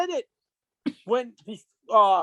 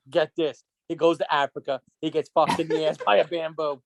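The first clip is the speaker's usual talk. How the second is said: gossip storyteller; 6 semitones lower than usual. Retold or imitated. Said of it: "tales you hear".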